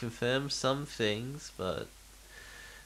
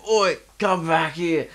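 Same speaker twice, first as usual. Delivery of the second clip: higher, louder yell; shouting drunk; 5 semitones higher, 7 dB louder than usual. Retold or imitated. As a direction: call him back loudly. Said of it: "And he's like".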